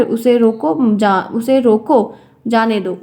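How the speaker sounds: उसे रोको, then a break, जाने दो; pause after रोको. Shown as a demonstration. Teacher showing students the comma, pausing after रोको. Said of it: "दोनों में कॉमा का सिर्फ फ़र्क है".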